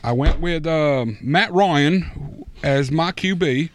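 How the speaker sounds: a lightly put-on British accent reading a fantasy lineup; mild mock British accent, half-hearted; a hint of a redneck British guy. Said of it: "give me your lineup in an accent".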